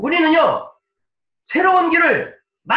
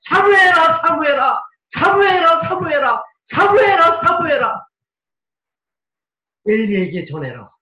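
lightly voiced urgent calling, pitch rising and falling; God calling Samuel. God calling sleeping Samuel, a touch of urgent pleading. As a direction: call the sleeping boy again and again. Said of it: "자는 꼬마 사무엘에게".

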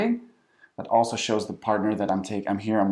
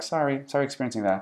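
offhand, detached sympathy; insincere; 2 semitones higher than usual. Shown as a demonstration. Partner standing outside the relationship, insincere. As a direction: sympathize without owning anything. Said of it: "that just becomes insincere".

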